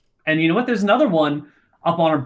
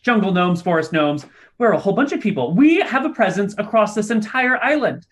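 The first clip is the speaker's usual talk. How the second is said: a touch higher, proud little gnome; lightly voiced gnome; 5 semitones higher than usual. Gnome proudly tells visitors about his people, lightly raised voice. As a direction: boast about the gnome folk.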